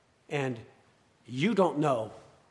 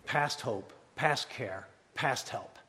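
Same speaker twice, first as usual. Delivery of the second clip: softer, dropped-down grave voice; a grave hush for the congregation; hushed preaching; 3 semitones lower, 9 dB quieter, slower than usual. Acted. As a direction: let the words sink in quietly. Dramatic preaching drop.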